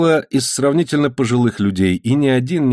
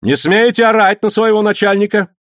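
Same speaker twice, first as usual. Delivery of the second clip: much higher, louder stern order; 11 semitones higher, 4 dB louder than usual. A narrator's reading. Mate ordering the cook to stop shouting, stern and loud. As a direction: put him in his place loudly. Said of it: "строго сказал помощник".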